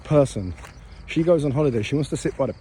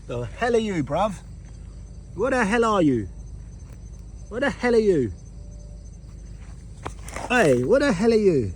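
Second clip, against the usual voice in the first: high-pitched, incredulous questioning; baffled exclamation; 7 semitones higher than usual. Real, not acted. Man confronting an unknown creepy-crawly at night, baffled and high. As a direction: challenge the strange thing in high-pitched disbelief. Baffled by a strange creature found.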